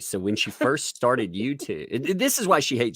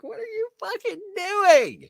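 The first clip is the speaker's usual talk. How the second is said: incredulous; slower than usual. Retold or imitated. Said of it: "It's like".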